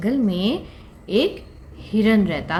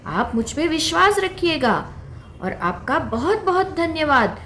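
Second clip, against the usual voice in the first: earnest little fawn; 4 semitones higher than usual. Acted. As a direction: fawn promising the lion it will return. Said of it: "हिरन बोला". (ऊँची, उत्साहित बच्चे की आवाज़)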